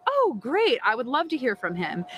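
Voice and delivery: bright, overdone "oh great" that jumps high; sarcastic eagerness, high on "Oh"; mock enthusiasm. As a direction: sell a fake excitement that hides doubt. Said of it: "I'm like".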